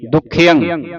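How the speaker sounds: ਦੁਖਿਅੰ with a held, doubled kh; tightened pronunciation. Shown as a demonstration. Teacher modelling for student to repeat, ਦੁਖਿਅੰ said tightly. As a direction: say ਦੁਖਿਅੰ tightly, nasal ending. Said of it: "ਕੱਸ ਕੇ ਬੋਲਣਾ ਇਸ ਨੂੰ".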